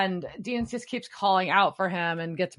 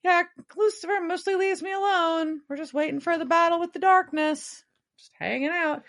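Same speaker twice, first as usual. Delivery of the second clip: lightly voiced Castiel, higher and fast, breezy; carefree Castiel; 11 semitones higher, faster than usual. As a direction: toss it off like nothing is wrong, up high. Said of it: "And he's like".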